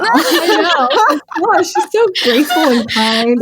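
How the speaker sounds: amused and warm; laughing. Real, not acted. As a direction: laugh through it. Laughing praise.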